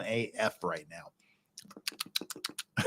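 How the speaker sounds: tipsy talk through numb lips. Real, not acted. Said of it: "my big tell that I'm drunk is I can't feel my lips".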